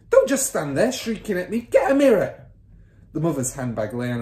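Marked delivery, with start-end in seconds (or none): 0.1-2.5 high, loud impatient order; father's yell. A narrator's reading. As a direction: bellow at his shrieking wife. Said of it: "the father yelled".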